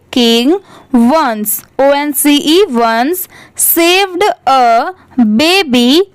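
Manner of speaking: slow, separated words with spellings; careful read-aloud. Shown as a demonstration. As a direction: dictate word by word to learners. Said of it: "पूरे paragraph को एक बार अच्छे से written read". (धीरे-धीरे, शब्द-दर-शब्द पढ़ना)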